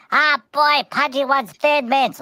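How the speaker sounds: high eager dog voice; a hammed-up puppy begging; Pudgy. Pudgy begging for Thin Mints, high and eager. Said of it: "and Pudgy like".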